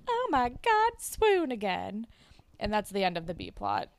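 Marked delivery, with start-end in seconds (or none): 0.1-2.1 high gushing "Oh my God", then slow "swoon"; swooning girl. Retold or imitated. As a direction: gush like a smitten teen. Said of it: "it's like".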